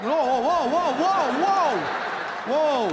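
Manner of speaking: high, loud string of whoas; mock alarm. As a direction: halt someone who rushes at you. Acted alarm at unexpected Spanish.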